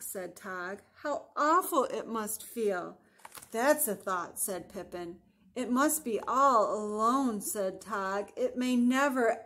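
measured picture-book narration; gently animated storybook voice; story reading to children. A narrator's reading. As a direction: read the dialogue aloud for young listeners. Reads picture book aloud.

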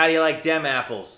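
put-on Boston accent. Partner quoting Good Will Hunting on request, Boston accent. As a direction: have a go at movie-quote Boston accent. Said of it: "You said to try a Boston accent".

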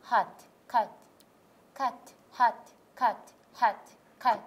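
loud drill repetition. Shown as a demonstration. Student repeating the teacher's drill, loud and steady. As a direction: belt out カット and ハット in rhythm. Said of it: "あれとの組み合わせで".

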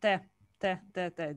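T said alone, crisp and repeated; isolated T sound. Shown as a demonstration. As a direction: tap out the T on its own. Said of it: "This is a T sound".

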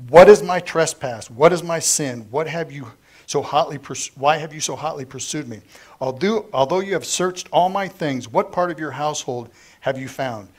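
loud, indignant demands; righteous outburst at the father-in-law; angry yelling. Acted. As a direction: tear into him, demanding answers. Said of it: "So he starts yelling at him".

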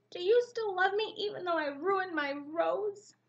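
lightly voiced chick, pleading with mommy; lightly cheeping chick. A narrator's reading. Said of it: "he cheeped".

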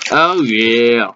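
speaking between bites; talking while chewing. Real, not acted. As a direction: mouth partly full of food. Seen 0: Bites food near -5s; jaw and lips still chewing while talking.

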